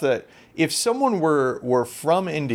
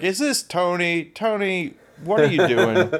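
higher, mock-buddy caller voice; prank call voice; 5 semitones higher than usual. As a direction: play the overly familiar prank caller. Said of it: "I slipped into my".

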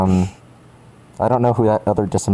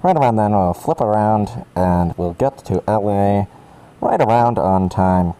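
pilot voice. Pretend. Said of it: "I'll do a pilot voice".

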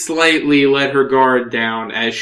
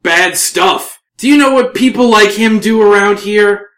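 higher, indignant retort as the elf; raised-pitch scornful elf voice; indignant elven woman; 9 semitones higher, 6 dB louder than usual. Acted. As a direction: challenge the outsider as an affronted elf.

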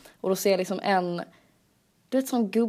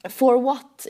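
put-on gruff old man; 5 semitones higher, 6 dB louder than usual. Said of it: "han bara".

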